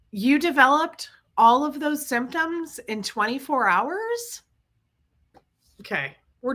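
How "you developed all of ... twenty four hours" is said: incredulous question, much higher on the end; mock the nurse's disbelief; passive aggressive doubt. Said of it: "Super passive aggressive".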